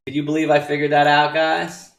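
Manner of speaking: fast, loud mock brag; mock boasting. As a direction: gloat at the crowd. Self-mocking boast.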